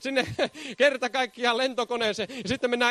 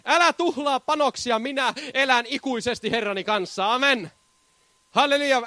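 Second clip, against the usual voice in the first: fervent preaching. Real, not acted. Pastor to congregation, fervent full-force preaching. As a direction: proclaim it to the congregation with fire.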